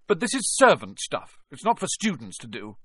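put-on spoiled boy complaining; whiny protest. Malfoy whining protest.

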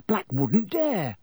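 high, drawn-out defiance; slow, emphatic bravado; spirited. A narrator's reading. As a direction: argue back with spirit. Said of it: "said Ron spiritedly to Hermione".

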